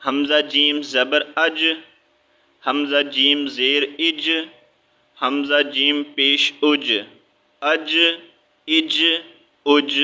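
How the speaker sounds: اج with the final ج pressed and bounced; qalqala bounce. Shown as a demonstration. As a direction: press the ج of اج so it echoes. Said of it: "ہم نے اس کو دبا کے پڑھنا ہے". (اج میں ج کو دبا کر قلقلہ کے ساتھ)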